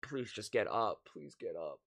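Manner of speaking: whispered, begging prayer; pleading whisper. Retold or imitated. Fan begging the injured quarterback, whispered. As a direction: whisper it like you can't bear to look. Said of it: "you're like".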